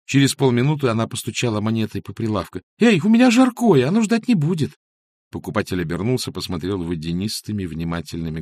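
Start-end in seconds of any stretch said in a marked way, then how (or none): 2.8-4.8 loud, much higher impatient shout; impatient call. Acted. Masha shouts to the busy shopkeeper, loud and high. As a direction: call out over the counter to be served.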